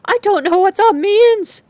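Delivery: loud parting retort; called back. A narrator's reading. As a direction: toss it back through the closing door. Replying through a closing door.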